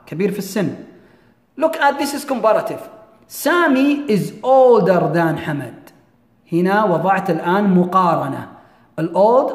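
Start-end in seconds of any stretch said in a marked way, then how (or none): 3.3-5.9 very slow, deliberate model sentence; slow example reading. Shown as a demonstration. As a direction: read it word by word for learners. Teacher reads comparative example.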